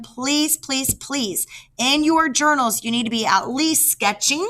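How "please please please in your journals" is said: higher, begging "please, please"; teacher begging her class to sketch; pleading. Real, not acted.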